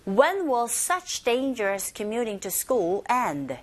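slow sentence read for learners to repeat; very slow teacher model of the question. Shown as a demonstration. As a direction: stretch the sentence out clearly. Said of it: "문장에서도 give a shot".

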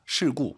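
事故 with 事 in a falling fourth tone. Shown as a demonstration. Teacher contrasts the flipped word for learners, fourth-tone 事 in 事故. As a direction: say 事故 with a firm falling tone on 事. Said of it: "이 시가 사성입니다".

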